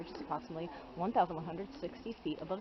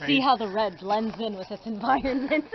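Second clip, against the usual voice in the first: slow, loud mock wildlife narration; nature documentary narrator; 3 semitones higher, 13 dB louder than usual. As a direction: narrate a hydrant like rare wildlife. Joking about hydrant like wildlife.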